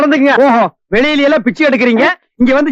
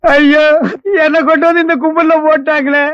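mock wail. Laments being locked up with beggars.

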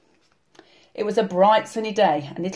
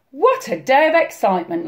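higher, lightly amused granny; mild storybook merriment; merry granny; 5 semitones higher, 4 dB louder than usual. A narrator's reading. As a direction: exclaim it as a relieved Granny. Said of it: "laughed Granny".

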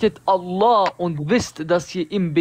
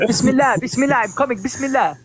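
mock pious voice; 6 semitones higher, much faster than usual. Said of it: "He said, he said".

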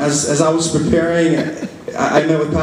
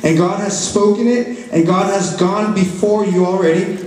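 raised-pitch, earnest preaching to a congregation; 3 semitones higher than usual. Real, not acted. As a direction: press the declaration home in measured phrases.

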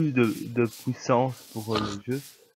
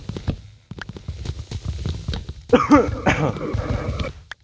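cough; 5 semitones higher, 4 dB louder than usual. Real, not acted. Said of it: "je suis un peu enrhumé".

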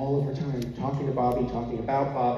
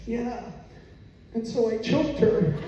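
put-on little girl; 10 semitones higher than usual. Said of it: "And she said".

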